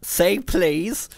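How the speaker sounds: high, prissy computer demand; smug computer. A narrator's reading. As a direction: demand it primly.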